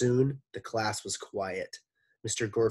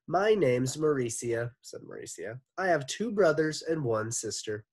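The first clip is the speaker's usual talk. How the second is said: pineapple milkshake voice; 5 semitones higher, 3 dB louder than usual. Acted. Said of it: "like a pineapple milkshake".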